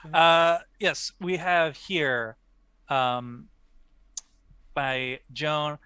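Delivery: languid pretentious art snob; unhurried, lofty gallery critique; art critic voice. Pretend. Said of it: "in your best, uh, art critic voice".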